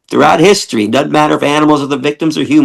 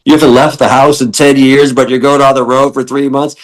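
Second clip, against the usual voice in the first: louder, incredulous question; mock shocked friends; 3 dB louder than usual. Friends shocked at Gary touring three months, incredulous. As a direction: echo friends' disbelief. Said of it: "people were shocked".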